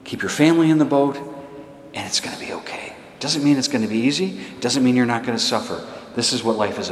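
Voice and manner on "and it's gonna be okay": sudden hush, almost breathed; reassuring whisper. Real, not acted. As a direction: let it fall to a near whisper of comfort. Reassuring the congregation, drops to whisper.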